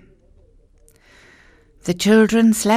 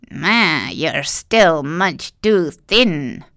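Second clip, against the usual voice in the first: complaining witch; much slower than usual. Acted. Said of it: "she complained".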